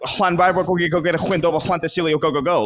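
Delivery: long Welsh place name rattled off as one word; like speaking in tongues. Shown as a demonstration. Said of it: "sounded like you were speaking in tongues".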